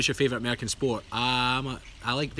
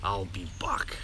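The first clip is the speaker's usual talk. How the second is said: mock Austrian accent; 5 semitones lower, slower than usual. Schwarzenegger catchphrase after German accent.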